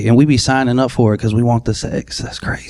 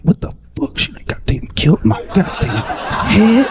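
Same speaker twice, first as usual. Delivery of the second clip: pissed; 7 semitones higher than usual. Retold or imitated. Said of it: "You like".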